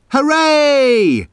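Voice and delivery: high, light cheer; mild cheer. Acted. Soldiers cheering for the king, mild cheer. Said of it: "shouted the soldiers".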